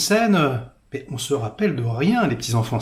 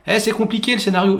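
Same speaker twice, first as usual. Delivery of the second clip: mock fan claim; 5 semitones higher, faster than usual. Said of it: "Non, mais on devine tout".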